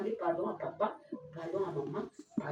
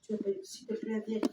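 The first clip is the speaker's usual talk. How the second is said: appel aigu; 11 semitones higher, 5 dB quieter than usual. Acted. Enfant appelle une camarade.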